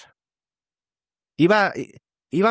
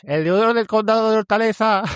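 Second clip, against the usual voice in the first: retold shout; 6 semitones higher than usual. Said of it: "gritándoles".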